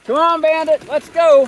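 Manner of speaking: high, loud yell across a field; calling the dog. Real, not acted. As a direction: holler for the runaway dog.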